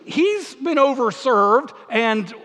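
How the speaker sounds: mock peacemaker.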